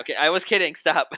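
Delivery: high, loud plea to stop; loud protest. Real, not acted. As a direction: cry out to cut off the bit. Begs the impression to stop.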